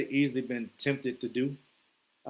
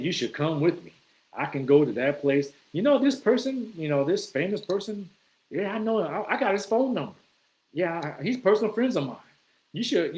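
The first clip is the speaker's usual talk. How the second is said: a bit higher, eager, lightly voiced braggart; hammed-up schmoozer; mock show-off; 3 semitones higher than usual. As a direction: play the pushy name dropper. Mocking name-dropping guy.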